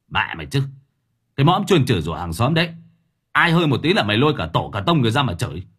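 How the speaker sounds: fast, harsh menacing rant; angry threat. Acted. Thưởng Báo threatens the jeering neighbour, fast angry rant. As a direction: threaten her through clenched teeth. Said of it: "Gã nghiến răng".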